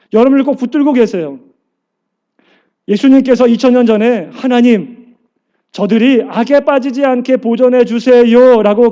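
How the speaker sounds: a pastor rousing the church with a loud, fervent sermon; full-force preaching. Acted. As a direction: preach it out to the congregation with fire.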